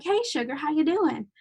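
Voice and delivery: lightly voiced Southern charmer calling someone sugar; Southern greeting. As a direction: greet her like a friendly Southern local. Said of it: "someone's gonna walk in and be like".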